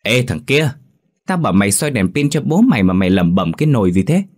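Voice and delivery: gọi giật rồi mắng bạn, hơi cao giọng; quát bạn vì sốt ruột; gắt gỏng. Acted. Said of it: "Hiệp gắt lên". (giọng gắt lên bực bội)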